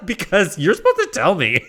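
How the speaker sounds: giggling through a mock scolding; laughing scold. Real, not acted. Reviewer laughingly scolds viewers, giggly and high. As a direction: laugh while wagging a finger at them.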